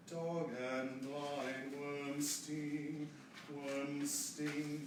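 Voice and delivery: slow, worm sting with a firm M. Shown as a demonstration. Director modelling diction of worm sting. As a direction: hum the M of worm before sting. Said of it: "get that M in for worm sting".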